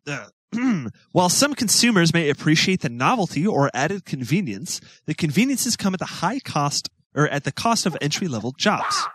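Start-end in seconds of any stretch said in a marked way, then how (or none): 1.1-9.0 reading an essay aloud; steady read-aloud of a written essay. Acted.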